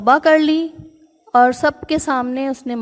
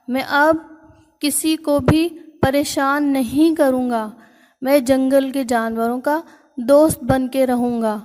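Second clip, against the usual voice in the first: crying elephant's plea. Acted. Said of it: "زور زور سے رونے لگا".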